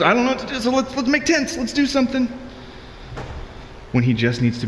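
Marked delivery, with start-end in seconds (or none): 0.0-2.3 much higher, fumbling panicky Peter voice; flustered Peter. Retold or imitated. Preacher voicing Peter on the mountain, pitched up and flustered. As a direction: play Peter grasping for anything to do.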